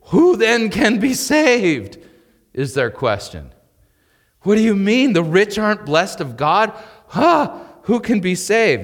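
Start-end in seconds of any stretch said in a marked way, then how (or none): 0.1-2.0 slow, high, loud cry of disbelief; astonished disciples crying out; astonished question. Acted. 4.4-8.8 high, loud disbelieving outburst; incredulous protest. Acted. Disciples' protest acted out.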